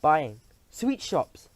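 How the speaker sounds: slow, drawn-out announcement; slow reveal. Acted. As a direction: savour the words. Grand High Witch reveals plan.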